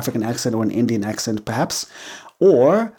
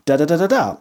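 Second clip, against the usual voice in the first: eager explaining; 9 semitones higher than usual. Pretend. Wearer of the hoodie gleefully explaining the word, high and excited. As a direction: launch into the explanation with delight. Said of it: "starting a conversation to go".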